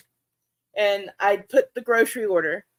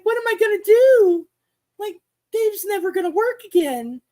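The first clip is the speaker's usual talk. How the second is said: high, loud, frantic wail; mock-distraught outburst, pitched up; panicked despair; 11 semitones higher, 4 dB louder than usual. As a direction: panic aloud about what to do. Retold panic over dead fish.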